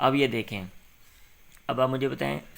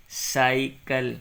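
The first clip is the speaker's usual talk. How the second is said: slowly sounded out; much slower than usual. Shown as a demonstration. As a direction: say سائیکل slowly, drawing out سائی then کل. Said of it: "سی، یا سائی آگے".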